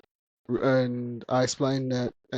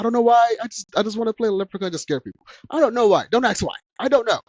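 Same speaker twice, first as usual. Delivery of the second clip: giggly disbelief; 8 semitones higher, 4 dB louder, faster than usual. Real, not acted. Laughing at her own odd wish.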